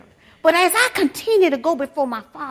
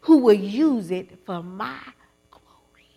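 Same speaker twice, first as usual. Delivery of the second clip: voice of God; 3 semitones lower, 4 dB louder, slower than usual. Acted. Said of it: "God says".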